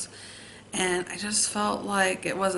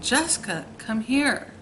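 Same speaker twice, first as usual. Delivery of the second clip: higher calls, insistent and repeated; sister calling again; 7 semitones higher than usual. Retold or imitated. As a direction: call her name up the stairs, higher each time. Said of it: "she'd start calling my name again".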